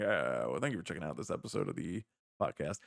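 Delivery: low, fast pilot over the intercom; airline captain voice. Shown as a demonstration. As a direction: announce it like a pilot to passengers. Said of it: "in-flight, uh, captain or something saying".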